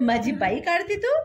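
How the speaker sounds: asking through a laugh; amused, giggling question. Real, not acted. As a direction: mom giggling as she asks about the drawing. Mother laughing at drawing.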